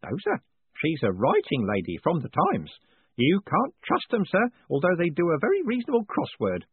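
put-on high old postman, sharing a secret; old clerk gossiping to his boss about the press; conspiratorial old Grote. A narrator's reading. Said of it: "Grote added conspiratorially".

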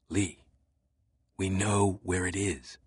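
soft, hushed confession; whispered. A narrator's reading. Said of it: "Langdon whispered".

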